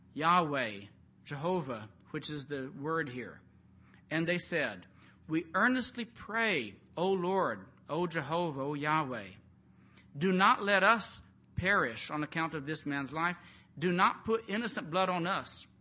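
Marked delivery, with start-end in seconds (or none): 5.3-15.7 earnest prayer. Acted. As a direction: plead to the Lord with weight. Reading the sailors' prayer.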